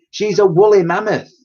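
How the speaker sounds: put-on firm little girl correction; correcting. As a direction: set him straight. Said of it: "correct him".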